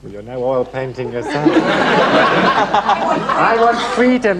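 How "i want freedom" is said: high, slow impassioned cry of I want freedom; worked up. Shown as a demonstration. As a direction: swell up with passion on freedom. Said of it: "you get a bit worked up here".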